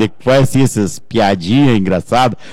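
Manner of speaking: normal talking voice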